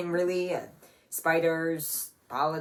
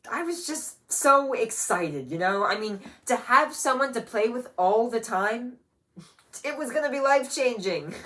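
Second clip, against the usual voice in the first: high, loud, gushing delight; thrilled storytelling, raised voice; excited recollection; 6 semitones higher, 6 dB louder than usual. Acted. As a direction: bubble over with a big brother's excitement. Recalling joy at brother's birth.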